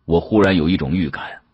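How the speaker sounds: plain reading voice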